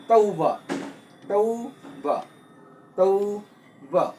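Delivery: "tauba" repeated with the pitch falling each time. Shown as a demonstration. Teacher drilling falling tone on "tauba" for students. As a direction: let each "tauba" drop in pitch at the end. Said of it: "in the case of the falling tone".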